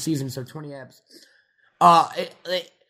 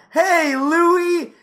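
much higher, louder cheer; cheering greeting; 13 semitones higher, 6 dB louder than usual. Retold or imitated. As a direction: greet him like a hero. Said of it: "everyone will go".

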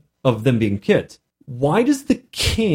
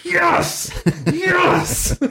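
very high, squeezed cheer; retold delighted squeal; gleeful triumph. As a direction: celebrate a secret win, voice way up. Game master delighted at players' outrage.

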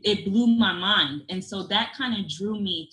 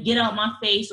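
mock yelling parent; 3 dB louder than usual. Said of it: "they yelling at they kids".

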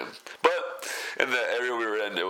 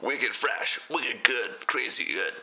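a mock Boston accent, pitched a bit higher; bad Boston accent; 4 semitones higher, much slower than usual. Vlogger hams up a Boston accent for fun, in a bad Boston accent. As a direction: try a Boston accent and miss. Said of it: "My Boston accent is absolutely horrendous".

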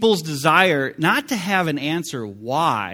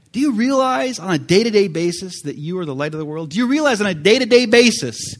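faster and louder on the repeat; building to loud; 4 semitones higher, 5 dB louder, faster than usual. Acted. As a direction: press the question harder. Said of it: "preacher presses the question".

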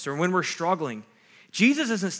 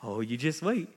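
low, hushed mock glee; smirking, giddy glee; 4 semitones lower, 5 dB quieter than usual. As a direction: tease softly, as if sitting on a happy secret. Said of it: "smirked and got a little giddy".

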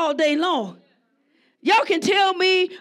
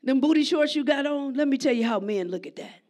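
gentle fatherly advice. Retold or imitated. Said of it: "if a man say".

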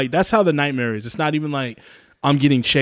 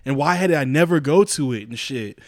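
louder, higher, baffled complaint; retold exasperation; 4 semitones higher, 4 dB louder than usual. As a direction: act out mild disbelief at yourself. Acting out baffled dream panic.

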